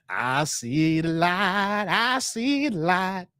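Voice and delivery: slow drawn-out I see the light; quoting House Party. Retold or imitated. Streamer quoting a movie scene, slow and reverent. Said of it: "that scene from House Party".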